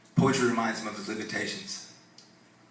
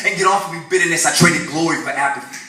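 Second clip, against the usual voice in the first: shouted, much higher defiant commands; preacher's triumphant shouted declaration; loud proclamation; 9 semitones higher, 12 dB louder than usual. Acted. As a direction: drive the darkness away with your voice. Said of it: "I will proclaim".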